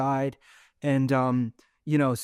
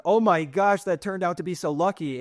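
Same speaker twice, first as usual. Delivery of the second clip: excited villagers; 4 semitones higher, 4 dB louder than usual. Retold or imitated. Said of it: "the villagers are like".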